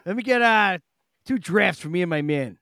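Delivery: pushy bar regular ordering a round; rough barfly voice. Pretend. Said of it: "I did throw out the White Trash Rob".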